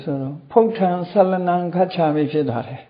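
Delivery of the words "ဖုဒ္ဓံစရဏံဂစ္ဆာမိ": Thai accent. Shown as a demonstration. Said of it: "ထိုင်းကဘယ်လိုဆိုတော့".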